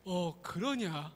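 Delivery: slow, musing spirit; a knowing, drawn-out question; mountain god. Acted. Mountain god pretending to believe Nolbu, slow.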